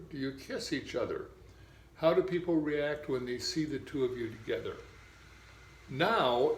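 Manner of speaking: measured read-aloud of an exercise script; guided visualization reading. Acted. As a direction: read it out evenly, pausing between instructions.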